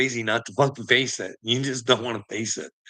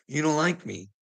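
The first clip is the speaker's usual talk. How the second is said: ordinary talk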